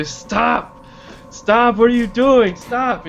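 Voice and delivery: high, frantic pleading; panicked protest. Acted. Captive tries to break free, panicked.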